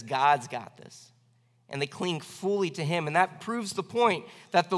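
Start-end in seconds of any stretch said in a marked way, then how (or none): 0.0-1.1 slow, lower, settled trust; unhurried, lower-pitched statement of faith; trusting believer. Acted. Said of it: "What the just do is says".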